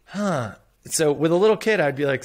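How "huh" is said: thoughtful huh. Shown as a demonstration. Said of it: "the next words out of your mouth are".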